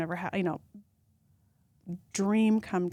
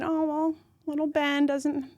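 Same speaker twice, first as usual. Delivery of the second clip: mock chatty mom; 6 semitones higher than usual.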